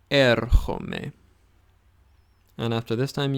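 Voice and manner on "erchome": erchome with a rasped ch, er-kho-me; model pronunciation. Shown as a demonstration. Teacher modelling erchome for students to repeat. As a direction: breathe the ch in erchome.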